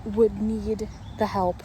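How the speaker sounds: each word drawn out slowly to make the point; slow emphatic rant. Real, not acted. Ranting to the camera about the stranger, slow and emphatic. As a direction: spell it out slowly, incredulous.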